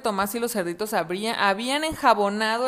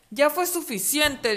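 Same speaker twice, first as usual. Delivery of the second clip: slow weary wolf; 6 semitones higher, slower than usual. Acted. Wolf gives up.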